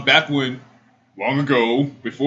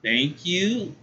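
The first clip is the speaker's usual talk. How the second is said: retold awkward thanks; 6 semitones higher, 4 dB quieter than usual.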